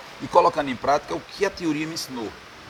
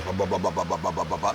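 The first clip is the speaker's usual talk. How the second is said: low, fading blah-blah of an announcer who talks too much; mock radio babble, softer and lower; mocking chatter; 9 semitones lower, 6 dB quieter than usual. Shown as a demonstration. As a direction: dismiss endless talking. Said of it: "Não é a voz".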